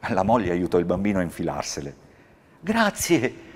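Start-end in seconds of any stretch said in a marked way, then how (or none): 2.6-3.4 high, smiling little thank-you; child's smiling thanks. Acted. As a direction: thank him with a smile in the voice. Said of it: "rispose sorridendo".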